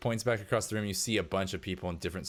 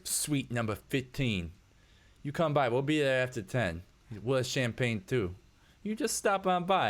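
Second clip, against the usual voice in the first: creepy invite; 6 semitones higher than usual. Acted. GM voices creepy husband.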